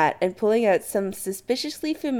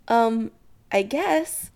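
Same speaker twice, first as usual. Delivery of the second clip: slow, higher, unsure; hesitant; 5 semitones higher, much slower than usual. Acted. Chris to excited Adam, hesitant. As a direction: drag it out uncertainly. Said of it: "Chris says hesitantly".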